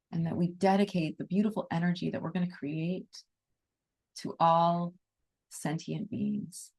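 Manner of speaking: soft, calm meditation voice; guided meditation. Acted. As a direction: ease the group into stillness.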